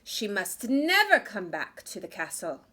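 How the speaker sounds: angry queen. Acted. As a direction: warn him harshly. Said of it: "became very angry".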